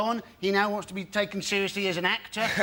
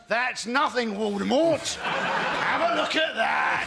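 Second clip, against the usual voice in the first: Harry Potter; slower than usual. Acted. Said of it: "and Harry Potter goes".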